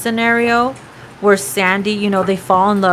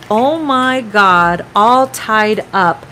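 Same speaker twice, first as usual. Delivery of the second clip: slow amazed oh my God; surprised; 3 dB louder, much slower than usual. Real, not acted. Reading the tied-up card to viewers, slow amazed. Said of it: "third card that mentions".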